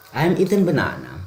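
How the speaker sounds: "I'm eaten banana" high and loud, stress on "eaten"; passive example. Shown as a demonstration. Teacher shows the passive sentence, stressing eaten. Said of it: "Ini adalah kalimat pasif".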